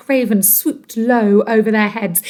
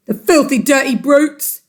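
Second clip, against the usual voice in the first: mild yell; 3 semitones higher, 3 dB louder than usual. Acted. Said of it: "yelled Mister Twit".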